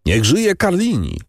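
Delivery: a mild hurrah, pitched well up; cheering call. A narrator's reading. Bandits hailing Carlini by the fire, understated high cheer. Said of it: "zawołali bandyci".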